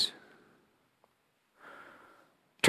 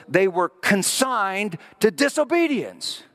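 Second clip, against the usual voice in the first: yelling; 4 semitones higher, slower than usual. Real, not acted. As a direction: draw it out in a yell. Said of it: "I'm yelling again".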